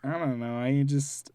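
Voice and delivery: real tears welling up; about to cry. Real, not acted. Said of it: "Why are you crying?".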